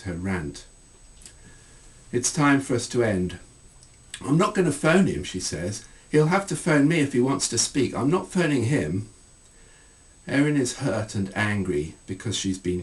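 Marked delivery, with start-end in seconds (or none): 4.2-9.1 higher, louder stubborn insistence; defiant refusal. Acted. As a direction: dig in, refusing to call him.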